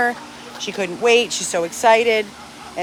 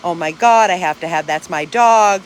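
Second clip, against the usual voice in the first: mocking eager adopter; 2 semitones lower, 6 dB louder than usual. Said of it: "how much you're dying for the dog".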